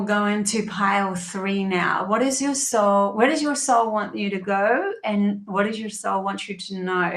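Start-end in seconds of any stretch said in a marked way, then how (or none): 2.1-7.1 slipping into English accent. Real, not acted. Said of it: "I started speaking like an English person".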